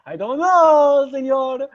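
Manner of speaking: high, loud, drawn-out mock Hispanic accent; hammed-up Hispanic accent; caricatured Hispanic accent. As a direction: stretch it out in an exaggerated Hispanic accent. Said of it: "he has, like, a horribly racist accent".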